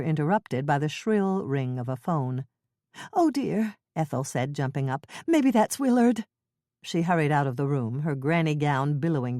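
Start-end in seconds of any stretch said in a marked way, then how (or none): 3.1-3.8 put-on high, slow, worried elderly woman; Ethel's fretful old voice. Old neighbor fretting to Jane over tea, high and slow. 5.3-6.2 put-on Ethel's fretful old voice. Ethel voiced in cozy mystery.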